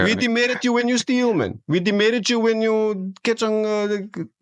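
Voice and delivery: mimicking stern authority lightly; mock demerit scolding. Mock cop scolding lines.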